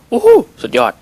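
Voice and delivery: high, loud "โอ้โห" of wonder; amazed. Real, not acted. Gamer marvelling at a great play, high and loud. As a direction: gasp out in delight.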